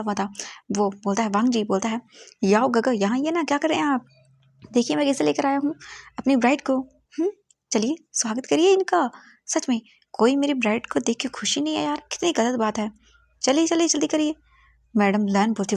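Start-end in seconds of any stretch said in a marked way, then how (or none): 2.4-14.3 higher, pushy excited voice; eager showing off. Acted. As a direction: hurry them along, proud and eager. Groom eagerly shows off bride. (ऊँची, उत्साहित और जल्दबाज़ आवाज़)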